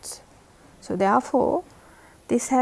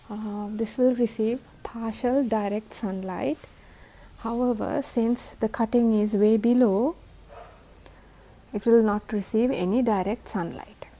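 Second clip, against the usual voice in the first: tired voice. Real, not acted. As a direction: speak like you're exhausted after a long day. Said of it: "sorry for my tired voice".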